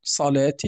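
"صلاة" ending in a pronounced n; tanween ending. Shown as a demonstration. Teacher showing students tanween, tanween ending. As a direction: sound the final n of "صلاة". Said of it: "هذا هو ما يسمى بالتنوين".

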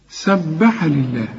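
سبح with the ب doubled and held; slow Quranic recitation of سبح; doubled consonant. Shown as a demonstration. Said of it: "كل حرف عليه شدة".

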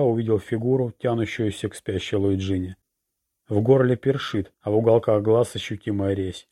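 plain reading voice

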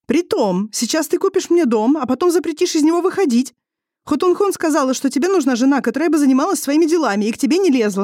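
put-on high, heated young woman's accusation; a young wife accusing her husband, voice high and heated; wife's bitter outburst. A narrator's reading. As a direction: hurl it back at him with bitter sarcasm.

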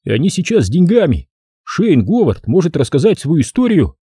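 high lisping voice; lisping whistling voice. Acted. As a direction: keep the high lisp going. Tommy continues.

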